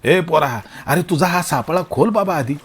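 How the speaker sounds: mild angry rebuke; somewhat angry. Acted. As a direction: tell the kid off, mildly cross. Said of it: "अंमळ रागाने म्हणाले".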